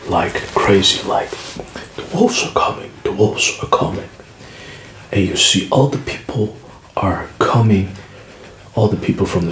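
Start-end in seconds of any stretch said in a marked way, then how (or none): 2.0-4.1 mock scream. Boy crying wolf to the village, hushed mock scream. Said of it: "So he's screaming like crazy".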